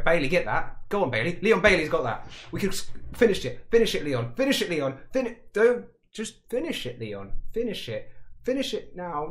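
high, excited pleading with the player; will the striker to score; urgent cheering on. Real, not acted. Urging player on at a late chance.

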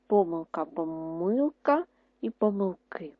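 помилка twice with different stress, then помилки; stress demo. Shown as a demonstration. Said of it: "скільки знаків наголосу стоїть над словом помилка". (різні наголоси, повільно)

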